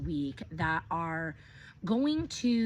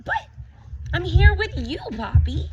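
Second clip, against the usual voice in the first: put-on high, louder childlike protest; child's reply; 11 semitones higher, 10 dB louder than usual. Reading aloud, child answers Grandpa Poppy brightly. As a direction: answer sweetly like a little kid. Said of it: "And I say".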